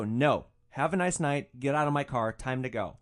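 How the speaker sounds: loud, firm refusal; no-nonsense order to leave; firm dismissal. Retold or imitated. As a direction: shut him down and send him out. Driver orders passenger out.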